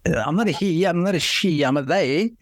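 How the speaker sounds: high, playful squeaky voice; squeaky playful demon; high mock voice. Joking demon voice continues.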